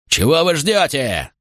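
high, slow angry yell. Acted. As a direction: yell at the hesitating men. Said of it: "заорал Макрон". (гневный крик)

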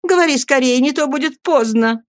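high, loud hurrying; urgent plea. A narrator's reading. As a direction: rush her before it's too late. Matron hurries the dying woman.

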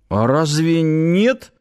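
high, slow, pouting question; offended pout, rising in pitch; childishly hurt. A narrator's reading. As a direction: draw it out like a sulky child. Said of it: "по-детски обиженно надул губы Киркин".

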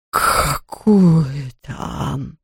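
low slow sniffling ghost. Acted. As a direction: sniff through it sadly. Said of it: "Привидение шмыгало носом".

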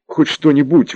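high, slow pleading cry; exclaiming. Acted. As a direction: exclaim it, begging him to act. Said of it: "воскликнула Светлана".

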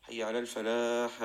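"الفلاح" lengthened before the stop; drawn-out call. Shown as a demonstration. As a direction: stretch the final vowel of "الفلاح", ending on a still consonant. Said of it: "حتى يمد بها صوته". (مدّ الصوت في «الفلاح» مع الوقف على السكون)

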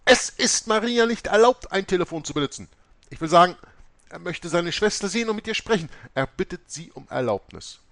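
shrill-high, loud outburst; agitated. A narrator's reading. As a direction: shout that he lies, very high and loud. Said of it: "Mutter Oberste regte sich auf".

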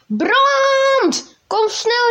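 high, loud panicked shout down the phone. A narrator's reading. Farmhand shouts to the fire brigade on the phone, loud and high. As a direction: yell for help, urgent and high. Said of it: "riep hij".

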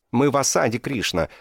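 terrified soldier nearly shrieks at Krishna; panicked high cry. A narrator's reading. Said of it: "почти что завизжал Сатьяки".

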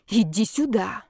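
menacing, controlled beckoning; predatory. A narrator's reading. Heroine beckoning Zaretsky to her, predatory. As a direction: lure him in like prey. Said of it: "хищно сказала я".

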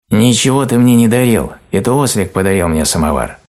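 a wary cub objects loudly; indignant shout. A narrator's reading. Медвежонок громко спорит с осликом из-за печки. Frightened cub argues with donkey.

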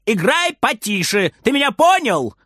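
grandma scolding, climbing high at the end; scolding shout. A narrator's reading. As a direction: call out a stern warning. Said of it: "кричит бабушка".

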